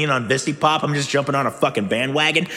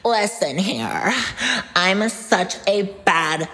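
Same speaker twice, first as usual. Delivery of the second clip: put-on sassy girl voice; slower than usual. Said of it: "I wanna show off all the voices".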